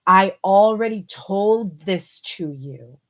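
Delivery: slow, pointed sass; sassy. Retold or imitated. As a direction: drag it out with a little attitude. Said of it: "she's getting a little sass here".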